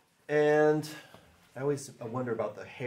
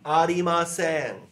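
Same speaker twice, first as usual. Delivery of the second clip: slow demo; 3 semitones higher, 7 dB louder, slower than usual. Shown as a demonstration. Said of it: "Let's say these slowly".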